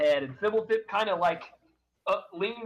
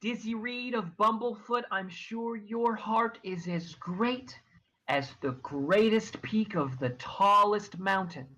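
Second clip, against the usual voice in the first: smiling NPC; 4 semitones higher than usual. Acted. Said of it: "So she smiles and she says".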